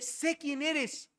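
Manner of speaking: slow, lightly acted demon quote; demon's words. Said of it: "Y dice".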